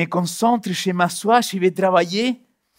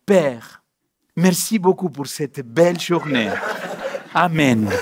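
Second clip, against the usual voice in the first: hypocritical prayer; 4 semitones lower, slower than usual. Retold or imitated. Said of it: "c'est une prière d'hypocrite".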